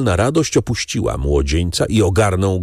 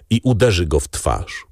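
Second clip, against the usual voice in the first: ordinary delivery, nothing marked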